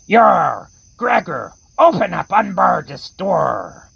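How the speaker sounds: hammed-up pirate at the door, Yar shouted; a cartoon pirate demanding to be let in; pirate accent. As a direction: bang on the door like a stage pirate. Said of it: "the ones with the terrible accents".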